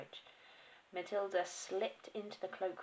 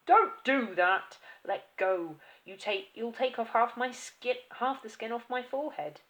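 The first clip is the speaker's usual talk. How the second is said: loud, high desperate pleading; the father shouting in panic at his wife; panicked shouting; 5 semitones higher, 10 dB louder than usual. Acted. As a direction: yell at her to let go. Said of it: "he screamed".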